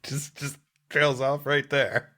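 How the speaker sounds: whispered, slow trailing-off; hushed, slowing trail-off. Pretend. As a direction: let it fade to a whisper. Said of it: "whispered trailing joke".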